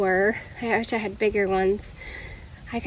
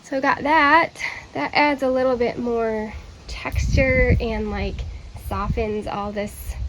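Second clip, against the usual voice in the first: out of breath. Real, not acted. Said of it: "I'm out of breath".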